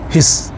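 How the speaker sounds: हिस with a short quick i; short Swedish i. Shown as a demonstration. Teacher models short i in hiss for learners. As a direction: clip the i in हिस. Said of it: "short पढ़ेंगे".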